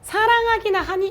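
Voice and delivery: high, plaintive complaint; whiny girlfriend. Retold or imitated. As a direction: sound hurt and accusing.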